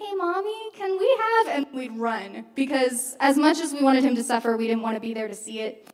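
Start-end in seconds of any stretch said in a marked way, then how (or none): 0.0-1.5 put-on small child's voice, very high and slow. Retelling a little brother asking for McDonald's: imitating his little voice. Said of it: "listen for his little voice to go".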